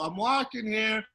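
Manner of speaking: toned-down playful holler; subdued catchphrase impression. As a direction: prompt a child with the cartoon catchphrase. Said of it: "looking at Tiger, go".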